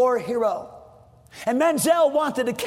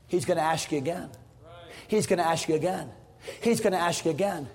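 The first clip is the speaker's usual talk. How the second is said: hushed and lower, almost confiding; quiet repeat; 8 semitones lower, 6 dB quieter, faster than usual. Real, not acted. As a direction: drop the voice and press the question softly. Preacher repeats softly.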